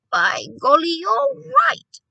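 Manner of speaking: loud exclamation swooping high at the end; excited cry. A narrator's reading. Grandmother realising the boy is right, excited cry. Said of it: "she cried".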